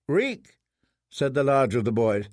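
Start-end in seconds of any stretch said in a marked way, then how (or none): 0.1-0.6 lightly voiced boy. Boy naming prisoner.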